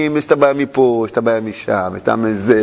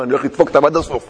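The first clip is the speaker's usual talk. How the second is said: laughing mock quote; 8 semitones lower, much faster than usual. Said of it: "ואמר".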